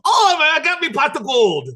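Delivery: high, loud Irish leprechaun voice; crowing over his gold like a leprechaun. Pretend. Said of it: "leprechaun at the end of the rainbow".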